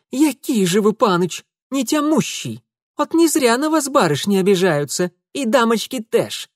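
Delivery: put-on high, loud scolding in Ukrainian accent. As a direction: tell him off, Ukrainian accent. Maid scolding in dialect.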